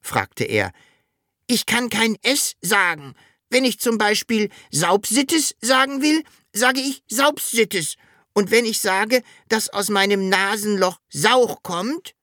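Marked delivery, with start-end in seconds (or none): 1.5-12.1 high dragon voice, "Sauch" with s for r; unable to say R. A narrator's reading. Dragon explaining its speech fault, high R-less "Sauch". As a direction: say "Saubsittes" and "Sauch" with s replacing every R. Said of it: "Du kannst kein R sprechen".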